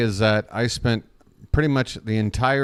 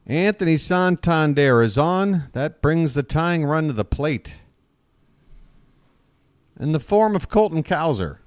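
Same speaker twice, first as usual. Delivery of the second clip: raised-pitch baseball call; live play-by-play; 4 semitones higher than usual. Real, not acted. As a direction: announce the runner and next batter.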